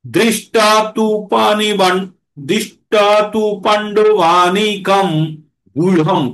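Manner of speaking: slow chanted Sanskrit verse; slow scripture chant; slow verse recitation. Shown as a demonstration. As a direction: recite it slowly, each word drawn out.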